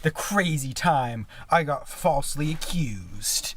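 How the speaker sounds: slow, dramatic trailer-style title read; mock-epic story title. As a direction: announce it like a movie title, slowly. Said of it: "That was pure magic".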